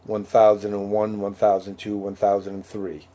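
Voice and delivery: counting seconds. Shown as a demonstration. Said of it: "it was like".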